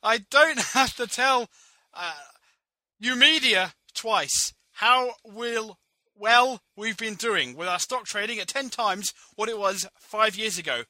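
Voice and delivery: put-on high, loud Jewish accent with oi; a loud, high stage Jewish accent; hammed-up Jewish accent. President at press conference, hammed-up Jewish accent. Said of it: "Jewish? ... what's a Jewish voice".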